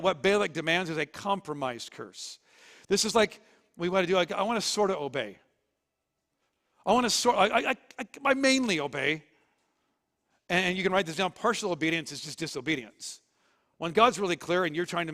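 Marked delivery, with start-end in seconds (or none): 2.9-9.2 higher, stammering, half-hearted excuse; mock hesitant believer. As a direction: squirm through a weak excuse.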